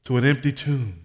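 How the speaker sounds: measured pastoral prayer with long pauses; public prayer. Real, not acted. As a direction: address God firmly in short, spaced phrases. Leads a closing prayer.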